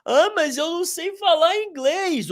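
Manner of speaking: squeaky mock complaint; mocking student. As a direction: mimic a student whining an excuse.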